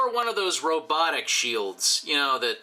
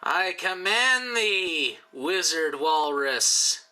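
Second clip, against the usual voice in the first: battle cry; 5 semitones higher, slower than usual. Acted. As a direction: cry out like a warrior leading the charge. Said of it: "he's gonna be yelling".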